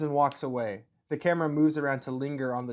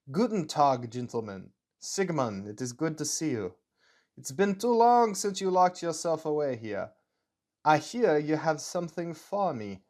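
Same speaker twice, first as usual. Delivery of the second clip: put-on German accent sliding towards Russian; 2 semitones higher than usual. Leather-jacketed officer greeting the scientist, German accent. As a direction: do a rough, amateur German accent. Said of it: "my German accent slips a little into Russian".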